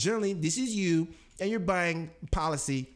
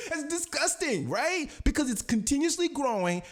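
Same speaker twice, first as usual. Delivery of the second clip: laughing delight; 11 semitones higher than usual. Real, not acted. Gleeful at compounding money.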